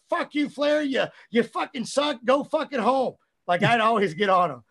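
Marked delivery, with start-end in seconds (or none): 0.1-3.2 higher, louder trash-talk promo; higher, louder mock-furious promo at a lazy trainee; retold angry promo. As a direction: cut a wrestling promo on him, furious. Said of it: "I'd cut a promo on him".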